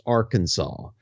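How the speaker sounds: "Arkansas" slowly, as AR-kan-saw; correct pronunciation of Arkansas. Shown as a demonstration. Co-host repeating the correction to the host, slow and careful pronunciation. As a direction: spell out "Arkansas" by ear, ending in SAW. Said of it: "it's Arkansas, not Arkansas".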